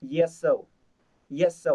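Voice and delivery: "Yes, so" run together fast; quick linked reading. Shown as a demonstration. Teacher demonstrating quick joined reading. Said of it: "Khi mà đọc nhanh sẽ là như này nhá".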